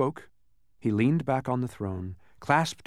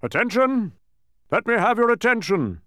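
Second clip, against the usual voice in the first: high, loud kingly demand; pounding-the-table royal order; insistent command; 12 semitones higher, 7 dB louder than usual. A narrator's reading. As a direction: call the room to attention forcefully. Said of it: "insisted the king".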